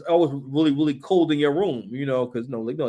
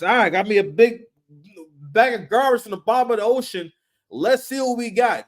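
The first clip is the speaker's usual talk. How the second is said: upbeat, pitched-up diver voice; imitating a garbage diver; 6 semitones higher than usual. Mocking Andy as a diver pleased with his garbage haul. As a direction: pitch it up like a cheerful treasure hunter.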